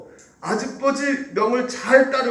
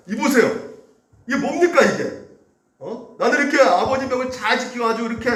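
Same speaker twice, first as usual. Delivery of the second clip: higher, bitter grievance poured out; spiteful complaint; 4 semitones higher than usual. Retold or imitated. Older son protesting to his father, spiteful grievance. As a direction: lay out every grudge against him. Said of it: "악독이 가득 찬 목소리죠".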